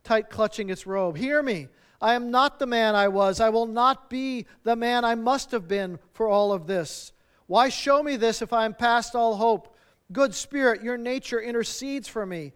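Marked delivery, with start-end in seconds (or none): 1.2-12.5 earnest, mildly raised plea; crying out. Acted. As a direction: beg the spirit to listen. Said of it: "he cried".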